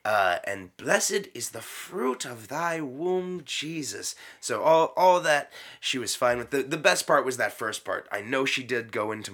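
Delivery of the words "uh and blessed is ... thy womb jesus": slow, solemn prayer; prayer recitation. Shown as a demonstration. Retelling the Hail Mary slowly. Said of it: "Hail Mary, full of".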